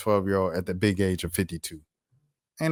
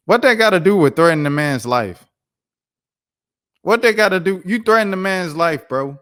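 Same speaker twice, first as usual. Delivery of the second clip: loud, high indignant rant; furious yelling at the screen; outraged; 6 semitones higher, 8 dB louder than usual. Real, not acted. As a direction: blast him for threatening a life. Outraged at threat to reporter.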